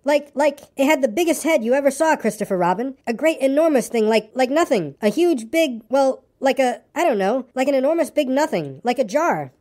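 high, stammering little voice; excited, frightened Piglet. Acted. Piglet describes the monster to Christopher Robin, high and flustered. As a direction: grope for words in a high, worried voice.

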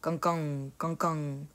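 low soft bullfrog gong. A narrator's reading. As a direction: boom it low like a fat bullfrog. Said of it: "the bullfrogs joined in with their low".

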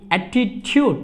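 অ্যাটিটিউড with the t said like Bengali চ, attitude-chood; teacher models অ্যাটিটিউড slowly, t softened toward চ; teacher's model word. Shown as a demonstration. Student hears the teacher model a word, pron demo. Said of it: "এই টি এর উচ্চারণ হবে চর মতো".

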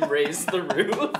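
half-laughing, drawn out slowly; lame mock dance call. Deliberately lame Raise the Roof while laughing. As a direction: lamely hype it up while laughing. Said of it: "doing a really lame".

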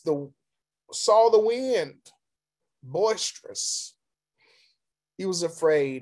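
measured reading with rising emphasis; dramatic scripture reading. A narrator's reading. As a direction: build the Bible story, pitch climbing. Reads scripture aloud.

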